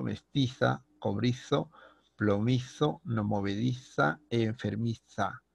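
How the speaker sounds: the z in "mestiza", "cobrizo" and "enfermiza" said as a strong drawn-out th; teacher overdoing the z of "plomizo" and "movediza" like Castilian; exaggerated z. Shown as a demonstration. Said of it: "he exagerado la pronunciación de la letra Z". (z exagerada como ceceo en "mestiza" y "enfermiza")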